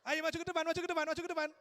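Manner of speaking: loud, high-pitched rallying call. Real, not acted. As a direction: summon the couples up front loudly and eagerly. Calling couples up to the front.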